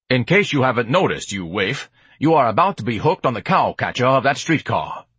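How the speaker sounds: mildly grand haughty warning; fussy, theatrical disdain; pompous Ignatius, scornful. Acted. Ignatius warns the waif of the streetcar, mildly scornful.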